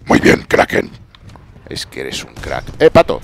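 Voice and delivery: ordinary talk, nothing marked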